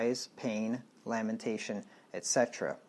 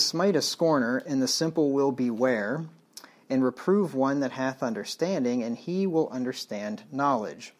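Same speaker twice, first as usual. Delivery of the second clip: stern louder read, hitting smite; emphatic scripture reading; 4 dB louder than usual. Acted. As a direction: read the verse like a command from the pulpit.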